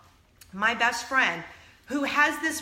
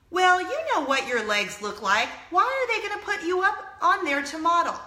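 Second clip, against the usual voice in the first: higher, emphatic mom imitation; scornful mother; 6 semitones higher, 4 dB louder than usual. Mom doubting her daughter can model, scornful mother. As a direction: voice a critical mother driving the put-down home. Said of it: "And her mom responds".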